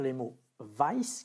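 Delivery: vice said slowly as English "vice". Shown as a demonstration. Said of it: "une différence de prononciation".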